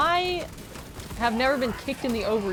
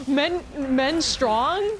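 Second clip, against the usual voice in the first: slow, dumb caveman grunt; 3 semitones higher, 4 dB louder, much slower than usual. Pretend. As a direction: drag it out like a caveman. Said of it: "How did you think of it?".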